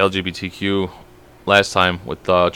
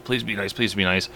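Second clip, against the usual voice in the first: quiet, nervous plea under the breath; quiet pleading to a loose pit bull; pleading hush; 3 semitones lower, 12 dB quieter than usual. Retold or imitated. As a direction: beg the dog softly to behave. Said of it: "I'm walking up, like".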